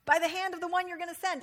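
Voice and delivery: pleading, then rushed; begging plea. Shown as a demonstration. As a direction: beg to be let off, hurrying the end. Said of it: "a little begging word in there".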